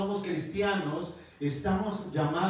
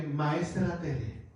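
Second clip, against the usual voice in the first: respectful address; 3 semitones lower, 3 dB quieter, much slower than usual. Retold or imitated. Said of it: "reconociendo el nombramiento de alguien".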